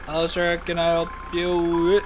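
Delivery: high, loud, chirpy server greeting; loud put-on barista greeting; customer service voice.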